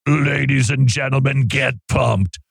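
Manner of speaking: over-the-top hype announcer read; sports announcer hype. Acted. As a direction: sell it like a big sports promo. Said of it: "it says announcer over the top sports hype tone".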